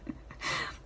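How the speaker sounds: soft unvoiced chuckle; hushed amused laugh; quiet laugh. Real, not acted. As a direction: laugh almost silently. Laughs at Widget's caramel demand.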